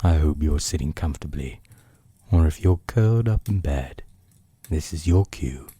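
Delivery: cosy storyteller easing into bedtime; bedtime story voice. Acted. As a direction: settle the listener in for a story. Bedtime reading to listener.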